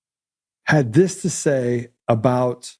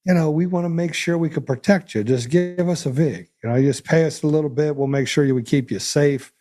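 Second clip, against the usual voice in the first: lightly voiced mob enforcer; hint of a mob shakedown voice; mobster. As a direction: offer protection like a mobster, a touch put on. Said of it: "like the mob shows up and says".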